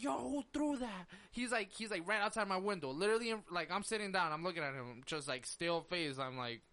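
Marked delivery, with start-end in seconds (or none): 0.0-1.1 slightly raised mock street challenge; imitating tough guy. Kid at the window demanding who threw it, acting tough. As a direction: mimic a confrontational kid. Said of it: "he's acting tough, like, real, like, real street".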